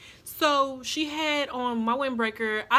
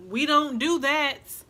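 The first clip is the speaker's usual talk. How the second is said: firm mom refusal; 3 semitones higher, 5 dB louder, slower than usual. Retold or imitated. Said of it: "And she said".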